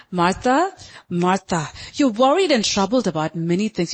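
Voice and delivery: calm, tender correction in an even voice; gentle, loving. Acted. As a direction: correct her lovingly, without heat. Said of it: "You see how he's talking? Love".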